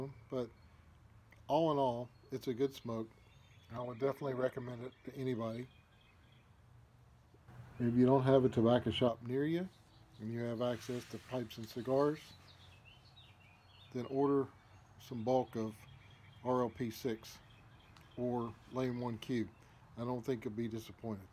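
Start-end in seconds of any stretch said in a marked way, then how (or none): 3.7-17.4 talking around pipe stem; pipe in mouth. Real, not acted. Seen 3: Pipe stem held between lips while speaking throughout the labelled words. 18.2-21.3 talking around pipe stem; pipe in mouth. Real, not acted. Seen 4: Pipe stem held between lips throughout the labelled words.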